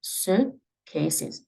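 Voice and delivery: suitcases ending in a clean s. Shown as a demonstration. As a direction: close suitcases on a crisp s. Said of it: "즈 발음보다는 스 발음으로".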